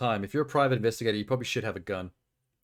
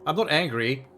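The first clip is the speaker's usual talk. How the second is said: defensive denial; 3 semitones higher, 5 dB louder than usual. Real, not acted. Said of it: "the weakest of us are the angriest".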